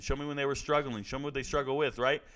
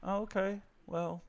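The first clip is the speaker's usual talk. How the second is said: small, higher, softer imitation of awkwardness; mock nervous reply; 5 semitones higher, 7 dB quieter than usual. Imitated shy guy answering a woman at the party, nervous. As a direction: play a guy stuck for words. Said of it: "You boys would be nervous".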